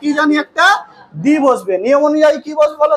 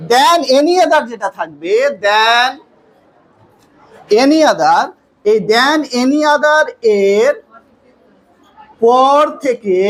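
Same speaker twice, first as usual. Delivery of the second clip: slow dictation; 2 semitones lower, much slower than usual. Real, not acted. Dictating the rule while writing.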